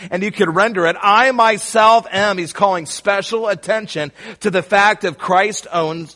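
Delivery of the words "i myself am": "I myself am" slow, raised and louder; emphatic I myself. Shown as a demonstration. Preacher rendering the verse for the church, slow and emphatic. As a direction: stretch "I myself am" out with weight. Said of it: "it's emphatic in the text".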